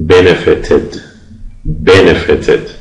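benefited with weight on BEN, the rest light; stress on first syllable. Shown as a demonstration. Teacher modelling the past tense, benefited stressed on its first syllable.

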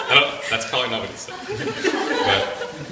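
words through real, lingering laughter; laughing while talking. Real, not acted. Speaker admitting Peter probably didn't say that, laughing through it. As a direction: try to carry on while still laughing.

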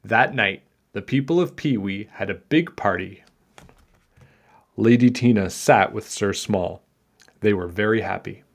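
put-on measured read-aloud for children; story narration. A narrator's reading. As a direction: tell it like a picture-book tale.

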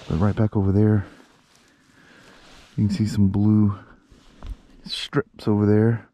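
muffled through a helmet; talking inside a helmet. Real, not acted. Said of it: "Sorry if I sound muffled, I'm talking through my helmet".

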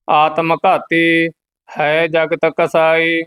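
monotone Gurbani chant with held endings; measured devotional reading; scripture recitation. Acted. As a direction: recite on one steady note.

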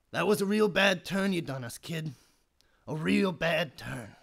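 soft, low and disappointed; quiet reproach. Acted. Uncle tells the kid he did wrong, disappointed.

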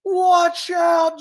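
high, loud call of alarm; shouted warning. Acted. Hero shooting through space, shouted warning. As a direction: yell it like a collision is coming.

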